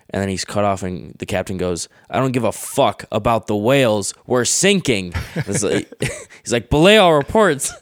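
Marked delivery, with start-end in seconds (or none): 2.1-5.1 imitating a captain losing his mind, higher pitch; exploding captain. Captain to navigator as the ship sinks, angry mock outburst. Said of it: "losing his mind". 6.7-7.7 high, loud mock yell; explosive captain's order. Captain silencing the navigator, explosive mock shout. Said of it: "explosive reaction from people".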